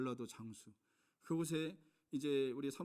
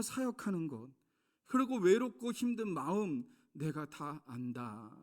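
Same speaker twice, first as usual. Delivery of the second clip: voice of the Lord; 2 semitones higher, 6 dB louder, slower than usual. Retold or imitated. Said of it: "주님이 말씀하시는 것 같았어요".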